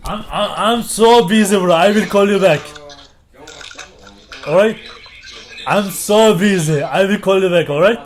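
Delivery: helium. Real, not acted. Phone call on helium.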